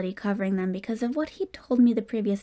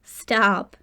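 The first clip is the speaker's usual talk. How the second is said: fake pleading; 4 dB louder than usual. A narrator's reading. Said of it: "he fake pleaded".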